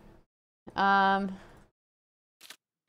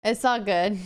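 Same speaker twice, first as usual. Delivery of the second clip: laughing. Real, not acted. Laughs off the mistake.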